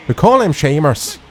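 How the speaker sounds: lightly put-on stereotype Irish accent; clumsy mock-Irish accent; terrible Irish accent. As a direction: have a bad go at an Irish accent. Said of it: "That was a terrible accent".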